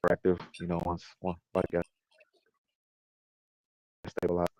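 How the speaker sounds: glitchy robotic voice over a choppy call; breaking up like a robot; robotic bad connection. Real, not acted. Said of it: "you definitely sound like a robot in disguise".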